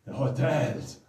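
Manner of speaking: hyped-up, high puppet voice, loud bursts; bouncing with big news for the kids; excited puppet Anton. Acted. Excited puppet voice hyping the kids up.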